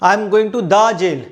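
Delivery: very slow, word by word; teacher dictating the example slowly; slow dictation. Shown as a demonstration. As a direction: spell the sentence out slowly for the class. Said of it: "मुझे jail होगी".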